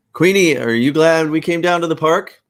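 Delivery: loud, high, rising question; mother to child. Acted. Sarah asking Queenie about the park, high and coaxing. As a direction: lift the voice up for a small child.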